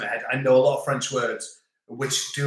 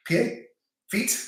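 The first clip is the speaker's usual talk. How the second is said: puzzled echo; 8 semitones higher than usual. Retold or imitated. Puzzled reaction to the word.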